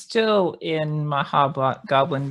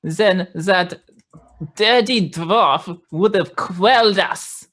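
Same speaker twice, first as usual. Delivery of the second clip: hobgoblin disguise voice; 4 semitones higher, 3 dB louder than usual. Acted. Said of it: "with my disguise voice".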